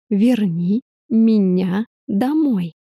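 very slow, separated words, pressing the demand; almost syllable by syllable. A narrator's reading. Woman demands that Arthur send her home, almost syllable by syllable. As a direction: spell out the demand slowly, piece by piece. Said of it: "почти по слогам произнесла я".

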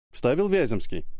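usual speaking voice

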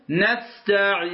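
نستعين with the ya held six counts; نستعين drawn out fully on the ya; نستعين with a long six-beat ya; six-count length. Shown as a demonstration. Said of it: "هذه ست حركات".

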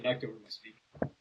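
distant, faint mic; from across the room. Real, not acted. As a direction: far off from the microphone. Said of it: "Sounds like you're across the room".

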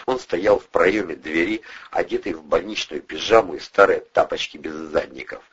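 ordinary delivery, nothing marked

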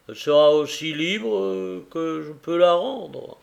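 earnest husband pouring out his regret; a man blaming himself for his blindness; grieving carrier. Acted. Carrier tells Tackleton of his wife's sorrow, earnest and grieving. Carrier vows to free her.

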